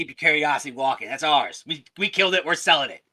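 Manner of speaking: very loud, high, booming goblin snarl. Voicing a small goblin who snarls at a curious player: snarling goblin voice. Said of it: "snarls at you".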